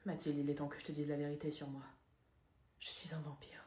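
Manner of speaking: soft, hushed confession; secret confession. Acted. Vampire confessing his secret to Mathilde, whispered.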